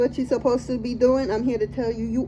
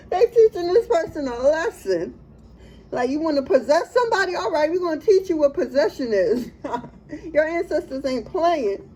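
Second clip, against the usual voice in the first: laughing; 4 semitones higher than usual. Real, not acted. Reader giggling to viewer about possession. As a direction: still giggling, higher.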